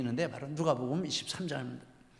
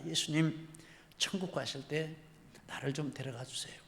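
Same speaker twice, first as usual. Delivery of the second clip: soft, subdued request; humble plea; 6 dB quieter than usual. Retold or imitated. Penitent robber asking Jesus for heaven, humble plea. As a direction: plead gently, letting the voice sink.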